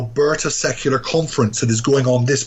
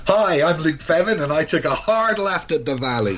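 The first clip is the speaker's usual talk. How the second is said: bright announcer-style tagline, a bit higher; radio tagline voice; 3 semitones higher than usual. Shown as a demonstration. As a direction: deliver it like a station ID. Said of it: "I gotta have you say".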